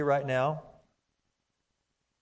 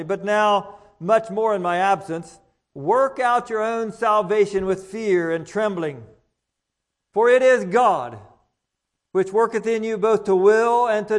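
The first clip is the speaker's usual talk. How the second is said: measured, solemn Bible reading; formal pulpit reading; scripture reading; 3 dB louder than usual. Acted. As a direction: read the passage to the congregation with weight. Reading scripture aloud in church.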